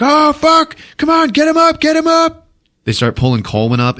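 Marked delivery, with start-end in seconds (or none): 0.0-2.5 high, loud mock alarm; hammed-up panic as the walls close in; panicked yell. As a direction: shout frantically to haul him up. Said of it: "everybody's like".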